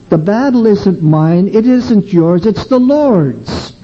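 rising, slowing to the Lord's; preaching build. Real, not acted. Preacher telling the congregation the battle is the Lord's, building. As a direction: build the line like a sermon peak.

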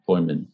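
Poemen said with OY first, POY-men, falling; another pronunciation. Shown as a demonstration. Group leader running through versions of the name, alternative pronunciation. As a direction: try Poemen as POY-men, dropping at the end. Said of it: "with the pronunciation".

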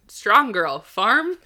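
loud, punchy cabbie exclamation, rising at the end; mock shout of admiration; imitated impressed shout. Polish cab driver impressed by her lifting, imitated shout.

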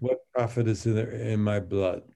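"What profit is in, in my blood?" read flat like prose, no beat; arrhythmic prose reading. Shown as a demonstration. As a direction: let it run as plain prose. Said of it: "you can hear that it's arrhythmic".

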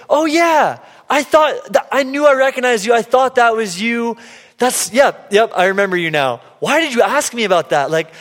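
excited high-pitched cashier remembering; chirpy cashier. Retold or imitated. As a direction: voice the cashier recognising him, puzzled. Cashier recalls him, voiced high.

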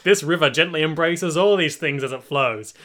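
lightly voiced documentary narrator, slowing on the last words; mock narrator exposition. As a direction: read it like a solemn nature documentary. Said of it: "the narrator's brilliant exposition".

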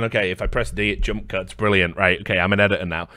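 mock clueless editor. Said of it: "the guy who's, like, basically gone".

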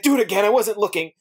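high-pitched quote of a cartoon sidekick; Patrick. Cartoon friend asks for a repeat, high-pitched imitation. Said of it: "just Patrick's like".

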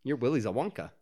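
"wonka" with an AH and no R; mimicked accent. Shown as a demonstration. Riffing with a friend on the film character's word, mimicked accent. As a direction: playfully copy an accented "wonka". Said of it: "because he had an accent".

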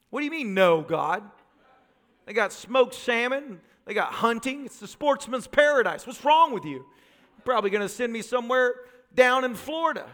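arguing back, mildly outraged; indignant protest. Acted. Pastor arguing with God over a refused church, mock indignant.

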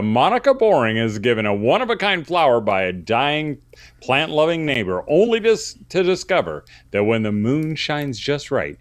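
dramatic movie-trailer narration, slowing at the end; announcer voice. Pretend. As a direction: sell it like a trailer, drawing out the last name. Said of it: "put on my announcer voice".

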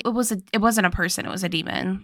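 mock-chill, soft offhand quote. Host retelling the guy's excuse, chill and offhand. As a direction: imitate a totally unbothered guy. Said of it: "so, like, chill. He's like".

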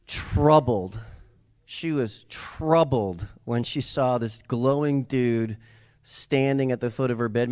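usual speaking voice

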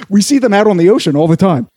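sailor line broken by laughter; laughing sailor. Acted. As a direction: say it while cracking up.

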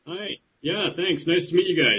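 distant, echoey line. Real, not acted. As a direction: caller sounding like he's in a hole. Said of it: "I got an echo".

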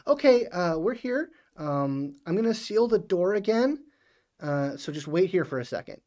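high AI voice. Acted. GM voices her over intercom.

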